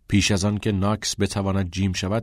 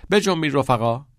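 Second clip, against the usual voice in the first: raised, cheerful hurry-up; higher, louder, smiling rally; 6 semitones higher, 5 dB louder than usual. A narrator's reading. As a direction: call the lads along with a smile. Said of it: "با لبخند گفت".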